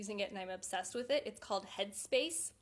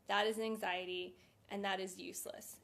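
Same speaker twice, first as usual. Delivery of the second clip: calm self-talk. Shown as a demonstration. Coaching viewers through a panic, calm and quietening. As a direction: say it flatly to defuse the panic. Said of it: "take a step back for a second and say".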